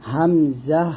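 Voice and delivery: হামজা with a clean stop at the top of the throat; hamza from the throat. Shown as a demonstration. Teacher showing where hamza is made. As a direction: start হামজা with a light glottal catch. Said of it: "কণ্ঠনালীর শুরু থেকে উচ্চারণ করি".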